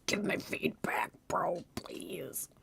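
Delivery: breathy whisper to chat. Real, not acted. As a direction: whisper the request, slow. Asks chat quietly mid-stream.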